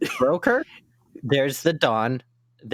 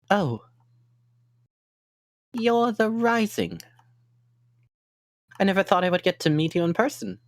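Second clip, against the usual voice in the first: excited fan voice; 9 semitones higher than usual. Acted.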